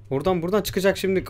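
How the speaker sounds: ordinary talk, nothing marked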